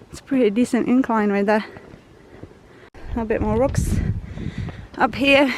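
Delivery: breathless, panting between phrases; winded from a steep climb; out of breath. Real, not acted. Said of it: "Sorry, I'm out of breath".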